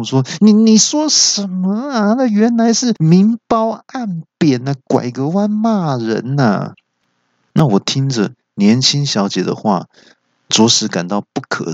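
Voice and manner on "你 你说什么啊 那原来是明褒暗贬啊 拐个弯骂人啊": 高声结巴的怒问; 发现被暗骂而恼火; 由喜转怒. A narrator's reading. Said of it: "由喜转怒". (高声怒气质问)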